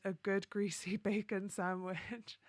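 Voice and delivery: real laugh breaking into the words; amused laughing. Real, not acted. Streamer amused by a viewer's very British answer, laughing. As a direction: read it out, cracking up with laughter. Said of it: "I'm laughing because these answers".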